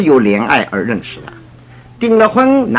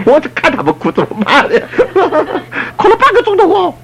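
laughing while telling. Real, not acted.

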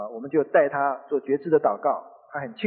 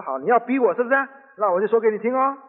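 higher-pitched retold retort, pushed to the limit; moderately heated comeback; fed-up anger; 4 semitones higher than usual. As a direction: fire back as an exasperated wife. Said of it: "那个太太也火大了".

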